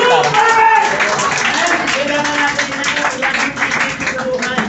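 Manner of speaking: high, loud exhortation; fired-up preacher rallying the room; rousing preaching. Acted. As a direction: call it out to the whole congregation. Preaching at full force.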